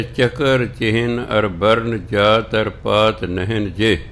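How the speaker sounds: slow, measured recitation of the verse; scripture recitation. Real, not acted. Gurbani ਦੀ ਪੰਗਤੀ ਸੰਗਤ ਨੂੰ ਸੁਣਾਉਂਦਾ ਕਥਾਵਾਚਕ, ਧੀਮਾ ਪਾਠ. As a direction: chant each word of the line deliberately.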